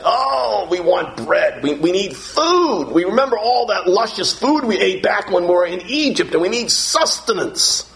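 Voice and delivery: high, pleading complaint for bread; whining Israelites. Retold or imitated. Preacher voicing Israelites in the wilderness, a high whiny plea. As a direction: act out the hungry people begging. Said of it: "children of Israel were crying for bread".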